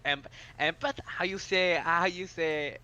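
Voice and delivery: put-on fumbling for the word in a light French accent; imitating French accent. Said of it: "He was like".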